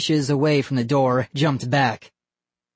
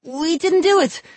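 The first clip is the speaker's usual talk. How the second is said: high, loud protest; a boy shouting denial to the neighbor; 4 dB louder than usual. Acted. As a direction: shout your innocence. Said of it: "Vinny shouted".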